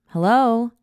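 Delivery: high, loud questioning call. A narrator's reading. Narrator calling to a hidden boy, calling out. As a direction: call into the darkness. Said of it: "I called out again".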